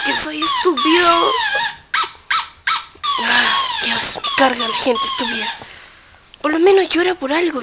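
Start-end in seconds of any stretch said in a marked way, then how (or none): 0.0-5.5 much higher, squeaky indignant protest; offended squeaky voice. Acted. Insulted character answers the player in a high indignant squeal.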